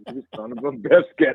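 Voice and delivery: laughing through the words; chuckling as it cuts out. Real, not acted. Caller laughing at frozen line.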